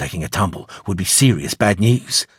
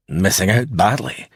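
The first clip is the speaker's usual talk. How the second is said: faint Scottish brogue; 2 semitones lower than usual. Acted. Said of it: "in a faint Scottish brogue".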